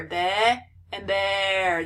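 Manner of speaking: "be and bear" with the short E held long; drawn-out vowel. Shown as a demonstration. Teacher showing students the hidden vowel, drawn-out pronunciation. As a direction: stretch the vowel in "be and bear" oddly. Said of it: "I'm, like, making it sound strange".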